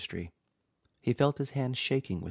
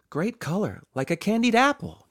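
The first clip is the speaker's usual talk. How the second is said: higher, bright chiming-in voice; 12 semitones higher, 7 dB louder than usual. A narrator's reading. Josie admires the car, chiming in higher. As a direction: pipe up eagerly, higher. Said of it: "Josie chimed in".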